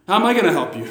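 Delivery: lightly mocking retort of a king; sarcastic. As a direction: toss it back with a touch of sarcasm. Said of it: "A little bit of sarcasm there".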